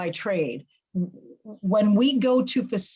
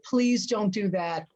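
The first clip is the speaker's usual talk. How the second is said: slow, deliberate request; measured plea; slower than usual. Acted. Coach advising an engineer about presentations, slow plea. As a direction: spell it out slowly. Speaker acts out advice to engineer.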